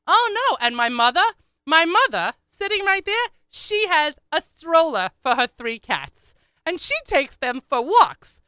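high, loud, stretched-out complaint; exasperated daughter. Retold or imitated. Daughter telling a stranger on her mother, exasperated. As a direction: build the outrage word by word.

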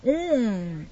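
slurping wine while tasting; drinking, mouth full of wine. Real, not acted. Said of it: "I'm drinking".

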